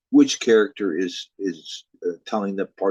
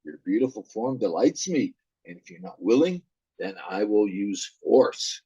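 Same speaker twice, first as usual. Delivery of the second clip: menacing Elf King. Acted. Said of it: "Elf King says".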